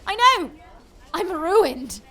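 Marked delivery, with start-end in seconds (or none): 0.0-0.5 high, loud wail of despair; despairing cry. Acted. Shipowner wails over his destroyed ship. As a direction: cry it out, ruined.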